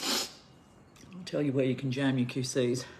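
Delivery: slow, cutting and contemptuous; daring him, word by word; slow defiant threat. Real, not acted. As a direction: spell it out slowly to him. Defiant jab at ex's lawyers.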